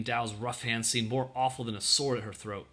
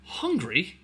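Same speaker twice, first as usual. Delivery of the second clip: higher, gasped one-word question; 5 semitones higher than usual. A narrator's reading. Ellen reacting to the soldier's hunger, gasped. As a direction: gasp it out at the very thought. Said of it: "Ellen gasped at the thought of it".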